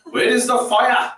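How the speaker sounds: lightly voiced fussy mother; mum nagging. Mum scolding son for driving fast, slow mock nag. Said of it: "she'll say".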